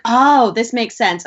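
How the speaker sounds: drawn-out mock aha moment; imitated realization. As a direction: voice a parent suddenly getting it. Parent's realization voiced in retelling.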